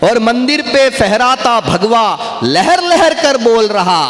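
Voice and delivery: slow, drawn-out poetic declamation; kavi sammelan recitation. Acted. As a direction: recite each line with relish, stretching the words. Recites devotional poem lines. (मंच पर कविता पाठ का धीमा, खिंचा हुआ अंदाज़)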